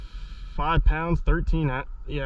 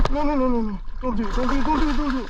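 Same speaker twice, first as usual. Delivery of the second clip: shrieking jackpot winner; 7 semitones higher, much faster than usual. Real, not acted. Fish about to come off.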